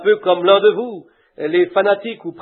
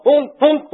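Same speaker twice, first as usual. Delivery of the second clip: mock duck honk; 6 semitones higher than usual. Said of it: "Il cria, honk".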